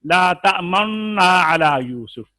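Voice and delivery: तमन्ना with lips rounded during the held "nn"; slow recitation, rounding the lips on the nasal in तमन्ना. Shown as a demonstration. Teacher showing the second reading, तमन्ना hummed through rounded lips. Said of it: "होठ गोल करें".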